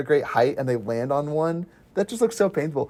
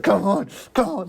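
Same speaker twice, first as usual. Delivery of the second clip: higher-pitched egging-on; mock goading, urge him to chase; taunting; 5 semitones higher than usual. Imagining the driver egging pursuers on, mock taunt. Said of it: "he's taunting him".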